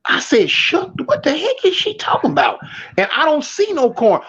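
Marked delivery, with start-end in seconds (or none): 0.5-2.6 higher, incredulous disbelief; mock outrage at a strange order; baffled. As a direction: react like the word makes no sense. Confused by corn shucking order.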